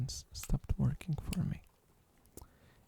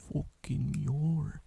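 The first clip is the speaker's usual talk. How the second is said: Australian mock accent; 4 dB louder, much slower than usual. Shown as a demonstration. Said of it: "We say".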